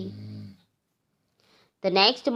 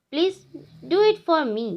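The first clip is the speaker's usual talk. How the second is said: mild plea, pitched higher; pleading; 6 semitones higher, much slower than usual. Acted. Tree asks the forest goddess for a favour, pleading. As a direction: ask as a heartfelt favour, voice lifted. Tree begs the fairy for leaves.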